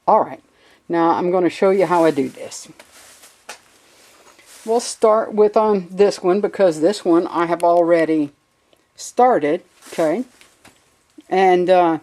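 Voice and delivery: muffled behind a dust mask. Real, not acted. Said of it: "So if I sound a little muffled".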